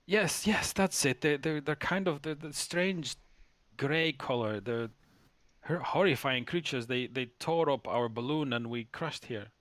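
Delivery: high-pitched, anxious captain pouring out her story; a scared captain recalling the attack, pitched high; frantic bird captain. Acted.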